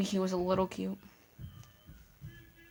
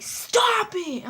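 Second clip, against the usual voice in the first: put-on whiny boy; 12 semitones higher, 4 dB louder than usual. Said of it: "he didn't yell at me".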